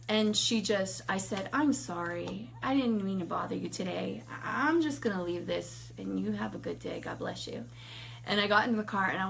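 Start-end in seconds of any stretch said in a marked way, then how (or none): 1.5-7.7 soft, careful leave-taking; gentle apology. Retold or imitated. Apologizing to the homeless woman, gently subdued. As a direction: back away politely, trailing to a hush.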